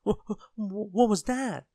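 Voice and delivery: high stutter bursting into a loud cry; terrified shriek. A narrator's reading. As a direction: jump with fright and shriek. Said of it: "he shrieked".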